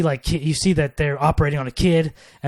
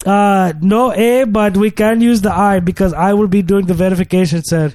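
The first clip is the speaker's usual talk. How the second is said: put-on African accent; 2 semitones higher, 3 dB louder than usual. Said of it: "I couldn't do my African accent".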